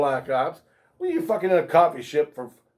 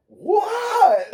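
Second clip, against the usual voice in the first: high shouted what, laughing; theatrical shout. Retold or imitated. Coworker shouts back, laughing and high. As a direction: throw it back with big drama.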